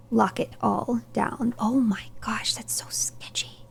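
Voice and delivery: hushed whisper to herself. Real, not acted. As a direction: whisper it under your breath. Whispered aside while playing.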